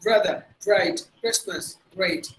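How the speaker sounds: "bright" and "great" with a clear r; pronounced R. Shown as a demonstration. Teacher lists R before vowels, clear-r demonstration. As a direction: sound the r after the first consonant in "Christmas". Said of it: "you have to pronounce it".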